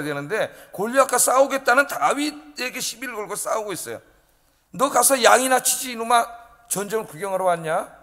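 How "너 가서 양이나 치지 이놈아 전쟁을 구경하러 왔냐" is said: mock scolding. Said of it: "욕을 해요".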